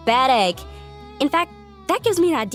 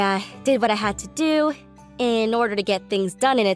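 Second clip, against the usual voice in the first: lower-pitched, reasoning restatement; measured concession; 5 semitones lower than usual. Acted. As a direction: reword your defense calmly and low. Concedes, then rewords same defense.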